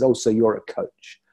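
a flat, offhand brush-off; dismissive. Retold or imitated. Advisor on the phone shrugging off Rich's answer, dismissive. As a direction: toss it off like it's nothing. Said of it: "in a really dismissive way".

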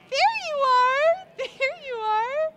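slow, high, loud cooing; slow sing-song peekaboo. Real, not acted. Peekaboo with the baby.

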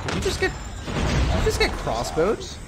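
high, slow disbelief; incredulous high. Real, not acted. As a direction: stretch out the disbelief. Incredulous at teammate's death.

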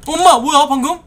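loud high "엄마!" in shock; startled shout. Real, not acted. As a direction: jump out of your skin. Startled by something in game.

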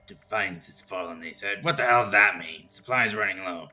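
loud ghoul voice reading a note. Acted. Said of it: "that was a dead ringer for a ghoul voice".

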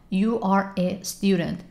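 slow uncontracted words. Shown as a demonstration. Teacher showing the slow full form. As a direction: say every word apart slowly. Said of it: "یا".

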